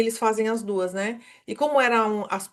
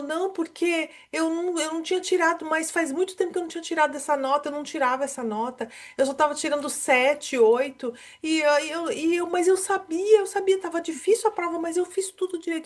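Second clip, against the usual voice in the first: put-on sobbing speech at a much higher pitch; 7 semitones higher than usual. A mother acts out her son's words, imitating her son crying. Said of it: "E chorou, chorou, chorou".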